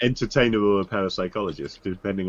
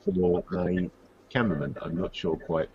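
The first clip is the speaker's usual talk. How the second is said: underwater; 4 dB louder than usual. Real, not acted. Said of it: "you sound like you're underwater".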